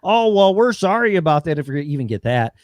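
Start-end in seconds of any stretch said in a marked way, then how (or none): 0.0-1.6 mock insincere apology. Mocking insincere official apology.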